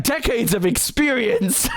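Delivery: slow, high-pitched anchor imitation; mock news anchor. Mocking the anchor on the bomb-making report, drawn-out imitation. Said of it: "the anchor is like".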